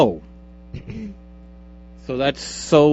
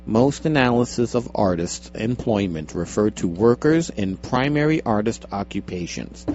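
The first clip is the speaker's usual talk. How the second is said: measured article-reading voice, a touch lower; read-aloud impression; 3 semitones lower than usual. Host reading a survey article to co-host, radio read-out. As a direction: read it out like a radio personality, lightly. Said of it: "That's exactly what that person sounded like".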